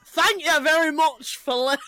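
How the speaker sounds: failed impression in a Scottish accent. Retrying the sign-off before amused co-hosts, Scottish-sounding accent. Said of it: "Maybe don't do the accent".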